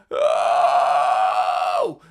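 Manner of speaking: a loud "Oh!" with no expression behind it; blank shout. Shown as a demonstration. Singing coach demos the wrong way, plain loud shout. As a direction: shout "Oh!" without selling it. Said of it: "won't sell anything".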